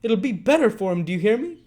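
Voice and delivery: furious cry. Acted. Nancy crying out to Fagin, furious and loud. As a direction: cry out and stamp your foot. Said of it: "cried Nancy, stamping her foot".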